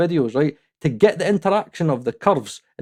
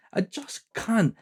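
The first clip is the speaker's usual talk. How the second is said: quiet resigned; 4 semitones higher, 8 dB quieter, slower than usual. Real, not acted. Exasperated repeated refusal.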